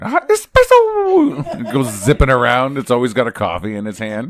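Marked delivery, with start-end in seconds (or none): 0.0-1.6 very high, slow, loud squeal; hyped cartoon squeal, stretched out; hyped up anime voice. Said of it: "It's the hyped up one".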